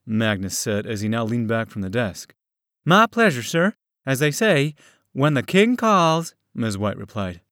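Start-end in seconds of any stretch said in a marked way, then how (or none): 2.8-6.3 put-on higher, courteous young woman's voice; sweetly deferential, pitched up; polite woman. A narrator's reading. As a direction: Miss White politely answering Magnus, higher voice. Miss White answers Magnus.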